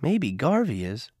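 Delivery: slow, playful tease; a sly smiling jab; teasing. Acted. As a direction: tease him gently, slowly. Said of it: "she smiled".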